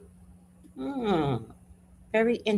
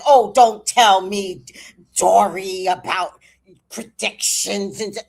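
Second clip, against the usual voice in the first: mock grandson; 6 dB louder than usual. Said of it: "He's like".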